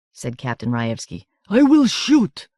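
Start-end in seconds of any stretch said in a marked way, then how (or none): 1.5-2.5 loud, slow, high menacing threat. Acted. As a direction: spell out the threat slowly. Captain threatens.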